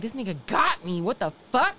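mildly heated mock complaint; retold mad outburst. Woman recalling anger after every orgasm, mildly mad. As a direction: replay being pissed off, voice lifting at the end. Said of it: "I would be mad".

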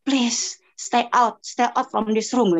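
drawn-out, slow request; slow retold plea. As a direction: stretch the words, asking to be left alone. Retold sending children away, slowly. (memohon pelan-pelan, kata dipanjangkan)

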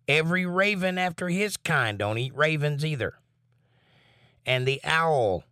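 measured Bible reading voice; scripture reading. Acted. Reads scripture aloud.

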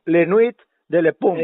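slow French with a Spanish accent; imperfect French accent. Real, not acted. Caller explains his programme's French name, imperfect French accent. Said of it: "mi acento no tengo perfeccionado".

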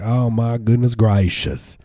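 slow mock Southern accent; exaggerated Southern exclamation, taken slowly. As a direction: lightly put on a drawn-out Southern accent. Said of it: "like, Southern accents".

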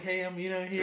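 a light polite work voice; customer service voice. Retold or imitated. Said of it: "my customer service voice".

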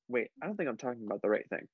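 slightly tipsy, rushed rambling. Real, not acted. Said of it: "I am drunk right now".

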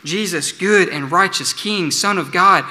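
slow, heartfelt plea rising on the name; earnest prayer. Real, not acted. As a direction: pray it from the heart, slowing into remember me. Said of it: "that's our only hope today".

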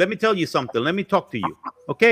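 coaxing New York salesman; New York accent. Shown as a demonstration. Salesman getting a customer to listen, New York accent. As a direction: draw them in with New York patter. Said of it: "I do the New York accent".

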